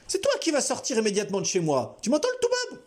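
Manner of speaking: high, taunting threat; menacing intruder. A narrator's reading. Intruder threatens Albert, high and taunting. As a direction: threaten the old man.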